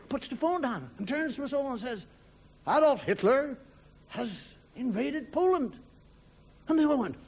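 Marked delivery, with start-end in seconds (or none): 2.7-5.8 raised, deliberate news-breaking to the family; solemn announcement. Acted. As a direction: announce dreadful news, slowing at the end. Father announces grave news to family.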